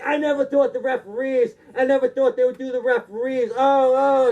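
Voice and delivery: mock-distraught ranting; freaking out. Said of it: "And he's freaking out".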